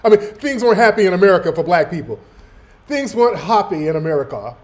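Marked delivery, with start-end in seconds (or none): 0.2-2.2 low mock British accent; bad British accent. Reactor parroting her words about America, mock British accent. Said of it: "That's a shit British accent". 2.9-4.5 much lower, drawn-back mock British vowels; bad British accent. Reactor repeating her line to mock her, bad British accent. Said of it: "That's a shit British accent".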